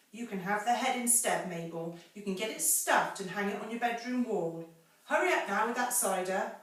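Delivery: a hint of an impatient mistress; bossy lady of the house. Mrs Bean orders from upstairs.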